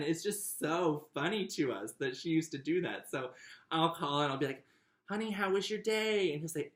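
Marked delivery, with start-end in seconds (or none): 5.1-6.3 high, playful Southern lilt; put-on Southern accent. Sister calling brother, in their joke Southern accent. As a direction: pitch it up in a mock Southern accent. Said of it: "We just jump into accents".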